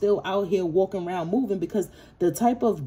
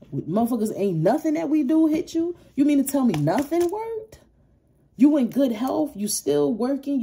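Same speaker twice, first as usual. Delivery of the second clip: higher, incredulous mocking of the haters; mock outraged haters; 4 semitones higher than usual. Reader mocks the haters amazed she still thrives, higher and incredulous. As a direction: play the stunned haters, disbelieving. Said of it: "these people mad 'cause you being celebrated".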